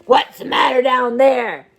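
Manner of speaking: loud angry bark; growled. Acted. Grumpy neighbour growls from his window, loud angry bark. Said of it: "he growled".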